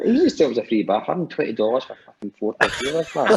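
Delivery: hammed-up disbelief at the bill; mock outrage. Retold outrage at bar price.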